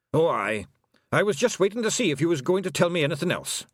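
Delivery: lightly voiced Scots pixie; a touch of wee Scottish flier; Hamish the Feegle aviator. Hamish answering Tiffany, lightly voiced pixie.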